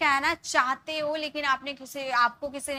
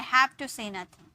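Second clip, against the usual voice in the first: very slow, word by word; slow dictation; much slower than usual. Shown as a demonstration. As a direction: spell it out for the class. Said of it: "मुझे कुछ नहीं कहना". (धीमा, शब्द-दर-शब्द उच्चारण)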